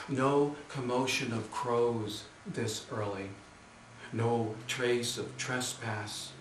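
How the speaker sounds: unhurried poem recital with spaced phrases; measured poet's delivery; poetry reading. Acted. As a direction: read the verse deliberately, pausing after each image. Reads third poem aloud.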